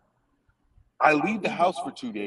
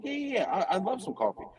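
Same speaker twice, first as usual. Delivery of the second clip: laughing through quote; 6 semitones higher than usual. Retold or imitated. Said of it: "I'm like".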